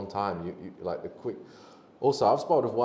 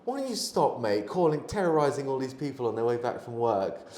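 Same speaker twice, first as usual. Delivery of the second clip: raised, scolding tirade; higher, louder mock telling-off; calling him out; 5 semitones higher, 3 dB louder than usual. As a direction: tell the beggar off in front of the carriage. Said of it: "someone actually called him out and said".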